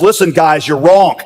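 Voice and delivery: acted exasperation, pitch climbing as it goes; building, lightly acted frustration; exasperated. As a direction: plead with friends, mildly fed up.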